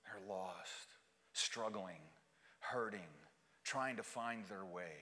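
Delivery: low, soft sermon voice with long pauses; hushed pastoral appeal; solemn preaching. Real, not acted. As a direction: preach gently and gravely, letting each phrase settle.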